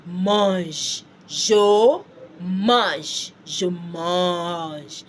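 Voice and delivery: "Mange" as one long syllable ending zh; French drill, silent E. Shown as a demonstration. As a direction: draw out "Je mange" word by word. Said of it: "You say what?".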